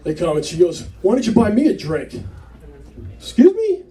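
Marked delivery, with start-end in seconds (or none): 1.0-2.2 higher-pitched imitation of a pushy barfly; mildly put-out demand, acted out. Retold woman demands a drink. 3.2-3.8 very high, loud disbelief; acted high-pitched double take; incredulous. He reacts to her demand.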